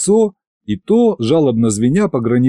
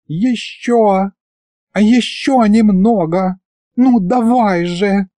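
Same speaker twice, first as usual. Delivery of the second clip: sensual; 10 semitones higher, slower than usual. Acted. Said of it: "сладострастно шептала она".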